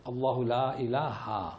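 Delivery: اللہ لا الہ spelled out very slowly, word by word; slow model reading. Shown as a demonstration. Teacher models the phrase for students to copy, slowly. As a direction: drill it slowly for the class to repeat. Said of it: "کیا پڑھیں گے آج سے؟".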